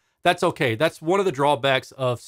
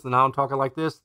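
hand over mouth. Shown as a demonstration. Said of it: "if I'm talking right now and I go like this".

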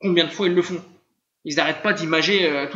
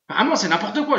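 scoffing laugh; 4 semitones higher than usual. Real, not acted. Scoffing at the series.

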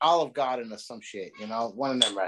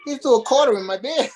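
retold indignation; 6 semitones higher, 4 dB louder than usual. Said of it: "And I'm like".

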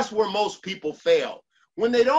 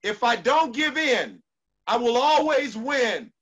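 shouted mantra; 3 semitones higher, 4 dB louder than usual. Shown as a demonstration. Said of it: "say this one with me".

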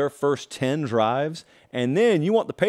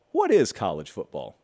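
calm reply; 8 semitones lower than usual. Retold or imitated. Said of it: "I replied to said person calmly, respectfully".

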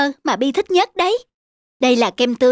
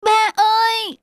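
put-on contrite little boy; 10 semitones higher than usual. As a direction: sound like a kid who has learned his lesson. Child understands.

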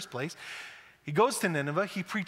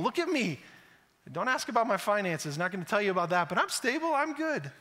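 mock boasting; 4 semitones higher than usual. Mocking a show-off.

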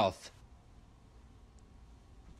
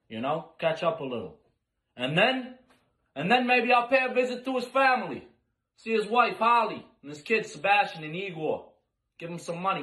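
menacing monologue; 3 dB quieter than usual. Acted. Menacing mafia-style monologue.

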